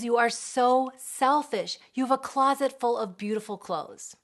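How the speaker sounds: scolding. Retold or imitated. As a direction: drag out the scolding. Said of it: "they're scolding that feeling".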